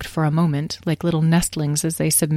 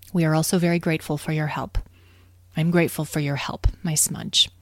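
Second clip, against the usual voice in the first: tender gratitude; 3 dB quieter than usual. Acted. Mother softly thanks her Smudge.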